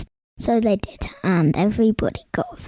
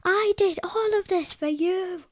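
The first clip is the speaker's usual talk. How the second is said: angry shout; 9 semitones higher than usual. A narrator's reading. Troll shouts at the king in anger. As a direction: hurl it at him in a rage. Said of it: "shouted with anger".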